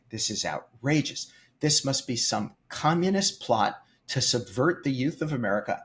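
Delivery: a staged outraged-citizen harangue; retold angry rant. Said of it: "I proceed to scream at this man".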